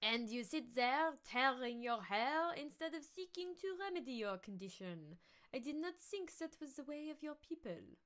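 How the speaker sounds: scornful nasal scolding; nasal villain voice. Acted. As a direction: needle him in a nasal voice. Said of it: "I think I lost the nasal".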